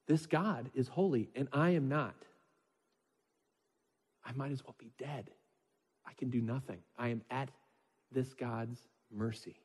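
soft, sinking, hopeless words; quiet despair. Acted. Isaiah before a holy God, quiet and despairing. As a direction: let it fade into despair.

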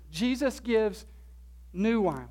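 pause, then a weighted "new"; stress on new. Shown as a demonstration. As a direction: set "new" apart and emphasize it. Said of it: "with the emphasis on the word new".

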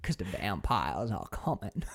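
put-on slow Maine-accented creeper, half laughing; cryptic weird voice. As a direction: imitate an ominous stranger, dragging the words. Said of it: "cryptic, weird voice".

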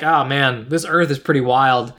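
easygoing, unbothered retelling; chill. Retold or imitated. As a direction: imitate someone casually chatting. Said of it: "kind of a chill conversation".

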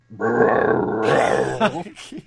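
rising wordless bear growl; mock bear growl. Vladimir the bear speaks from stretcher, mock growl. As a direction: growl as the injured bear, hammed up. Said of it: "He said".

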